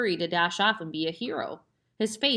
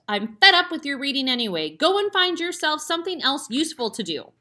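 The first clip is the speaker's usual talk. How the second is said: raised, louder scolding father; fed-up father; 7 semitones higher, 6 dB louder than usual. A narrator's reading. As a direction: wave her off, fed up. Angry father dismissing Matilda.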